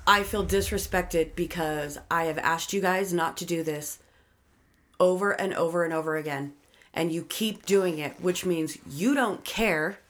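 measured and steady, slowing at the end; calm statement. Shown as a demonstration. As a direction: explain it calmly, no heat. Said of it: "and calmly tell somebody".

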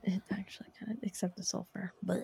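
whispered, grossed-out blech; disgusted by taste. Real, not acted. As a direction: recoil from a bad taste.

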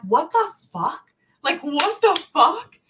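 high, loud, slow what the fuck; stretched out panicking outburst; reliving the moment she was blocked, panicked and loud; panicked disbelief. Retold or imitated. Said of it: "crazy girl panicking right now".

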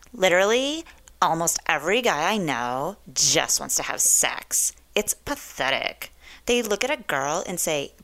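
a hint of airhead Valley Girl. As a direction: read it like a mock Valley Girl. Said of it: "in my best Valley Girl voice".

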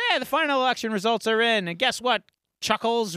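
Joker. Retold or imitated. Retelling the villain's taunt to Mayfield, mock gleeful announcer. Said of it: "it's just the Joker watching T V".

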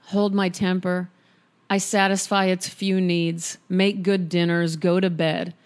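calm, even reading of a poem. Acted. Reads a poem aloud.

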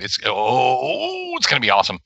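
mock gushing fan. Imitating himself as a gushing fan.

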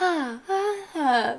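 soft, dainty mock-British "ah"s; Nathan's delicate British sounds. Host mocking how Nathan tries to sound delicate, dainty British "ah"s. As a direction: imitate a badly faked British accent in little delicate ahs. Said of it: "tries to sound, like, delicate".

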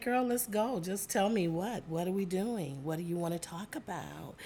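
mock her co-host's eager reply, lightly voiced; imitating her friend. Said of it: "Is that how I sound?".

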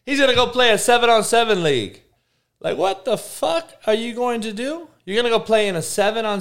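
high-pitched laughing disbelief; mocking laugh at the news; laughing incredulous. Real, not acted. Laughing at Manziel.

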